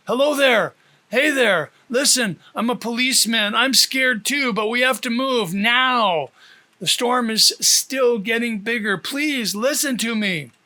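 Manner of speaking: a policeman calling over a loudspeaker. Acted. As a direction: call through the storm to calm them. Officer calming people through loudspeaker.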